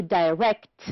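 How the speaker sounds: "direct" stressed on RECT; stress on second syllable. Shown as a demonstration. Teacher giving the verb, second syllable of "direct" stressed. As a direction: land on the end of "direct". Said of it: "On the second syllable".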